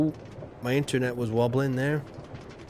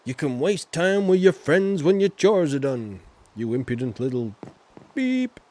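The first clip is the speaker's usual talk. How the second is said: mock scolding uncle; 2 semitones higher, 6 dB louder than usual. Acting the uncle scolding Luke.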